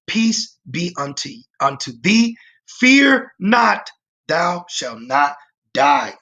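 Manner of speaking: slow, solemn voice of the Lord, a little apart from his own; the Lord speaking. Acted. Preacher voicing the Lord reassuring Gideon, slow and solemn. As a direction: speak as God calming a frightened man. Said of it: "and the Lord said unto him".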